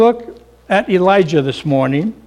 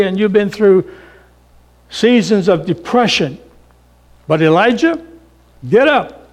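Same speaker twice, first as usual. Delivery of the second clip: raised, urgent calling voice; God rousing Elijah. Acted. God to Elijah in despair, an urgent call. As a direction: wake him up and lift him. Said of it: "So God said".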